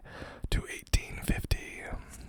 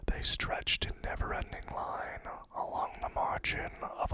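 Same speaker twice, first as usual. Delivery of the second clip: whispered poem reading. Acted. Reads Wordsworth poem aloud.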